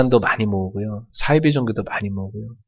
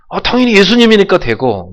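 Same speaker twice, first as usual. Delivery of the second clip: higher, louder mock naive thought; naive believer; 9 semitones higher, 8 dB louder than usual. Preacher imitating believers' excuse, higher and louder. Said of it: "보통 우리는 생각하기를".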